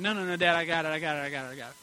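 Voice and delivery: put-on insistent kid voice, quick repeats; proud boy refusing help; eager little boy. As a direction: play the stubborn son pushing back. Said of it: "son grabbed milk".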